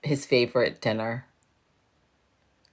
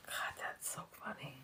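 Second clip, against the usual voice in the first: helpless laughing; 20 dB quieter than usual. Real, not acted. Streamer tickled by own joke, helplessly laughing. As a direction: voice gone to a whisper from real laughing. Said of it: "I'm laughing so hard".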